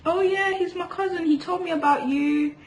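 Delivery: high voice for her friend; voicing friend.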